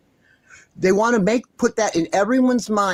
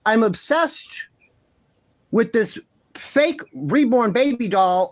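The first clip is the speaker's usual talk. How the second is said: mocking quote; 2 semitones higher, slower than usual. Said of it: "then she's talking about, I'm, oh, I'm obsessed".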